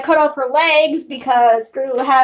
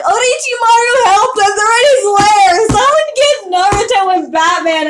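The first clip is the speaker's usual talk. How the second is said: higher, louder retold cries for help; mock panicked yelling; 5 semitones higher, 4 dB louder than usual. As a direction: ham up the drugged panic. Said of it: "started screaming".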